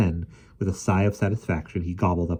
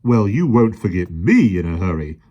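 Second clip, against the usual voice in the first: grimly; 8 dB louder than usual. A narrator's reading. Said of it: "the policeman put in grimly".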